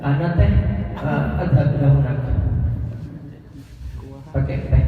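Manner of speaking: Arabic with a light mock Sundanese lilt; Sundanese accent. Shown as a demonstration. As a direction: tack Sundanese teh onto the Arabic. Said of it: "yang Sunda pakai gaya Sunda". (logat Sunda yang ringan)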